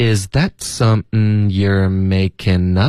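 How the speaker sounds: slow, careful, word-by-word delivery.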